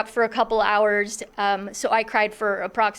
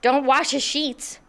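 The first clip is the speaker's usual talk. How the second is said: mild retold panic; 3 semitones higher, slower than usual. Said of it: "I was in a panic".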